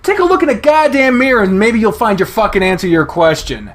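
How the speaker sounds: high, loud, slow throwing-back of "Be like this?"; furious retort. Acted. Chase fires Leo's words back.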